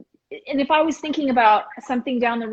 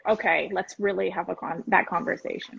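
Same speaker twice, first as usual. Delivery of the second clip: quiet earnest invitation; 4 semitones lower, 6 dB quieter than usual. Retold or imitated. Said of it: "to go".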